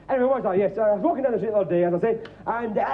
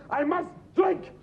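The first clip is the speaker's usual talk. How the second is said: mock compulsion; 5 semitones higher than usual. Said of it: "driven by an inner compulsion".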